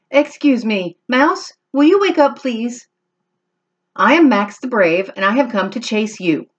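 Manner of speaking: kitten voice. Acted. Kitten addresses sleeping monster.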